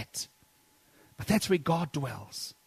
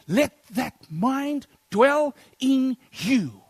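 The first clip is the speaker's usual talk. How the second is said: voicing Paul; 9 semitones higher, 7 dB louder, much slower than usual.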